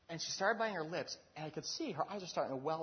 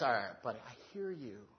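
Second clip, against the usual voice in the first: calm friendly advice; 3 semitones lower, 5 dB quieter than usual. Retold or imitated. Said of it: "And he goes".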